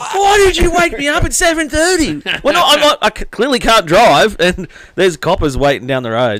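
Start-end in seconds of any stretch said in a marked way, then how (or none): 0.1-2.2 yelling, very high-pitched. Retelling being woken at seven thirty: imitating his own yelling. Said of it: "he's yelling at me".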